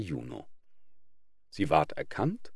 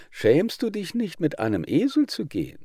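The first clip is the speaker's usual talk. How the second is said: cheeky mocking crow; 9 semitones higher, 3 dB louder than usual.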